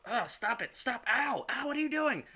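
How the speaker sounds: high-pitched mock protest; alarmed wife. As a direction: squeal it as the startled wife in bed. Wife protests being choked in bed.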